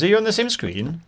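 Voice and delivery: high-pitched mock Indian accent. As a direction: question it as an Indian-accented caller. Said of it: "he definitely had an Indian accent".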